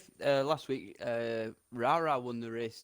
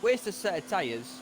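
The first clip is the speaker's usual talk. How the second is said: annoyed; 4 semitones higher than usual. Real, not acted. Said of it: "that annoy me".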